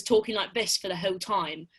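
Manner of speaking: put-on British TV accent. Shown as a demonstration. Actress shows how she went around talking, British accent. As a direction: imitate a British lead actor's accent. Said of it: "like, a British T V show".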